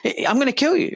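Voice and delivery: high, hard threat in a cop's voice; threatening cop. Retold or imitated. Quoting the cop threatening to shoot the man. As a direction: snap it out like a trigger-happy cop. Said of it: "the police officer is literally saying".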